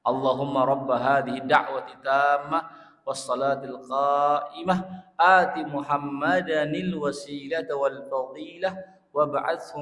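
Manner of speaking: slow, drawn-out Arabic prayer recital; prayer recitation. Acted. Preacher reciting the adhan prayer to the congregation, slow and measured. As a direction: recite the prayer, slowing toward the end.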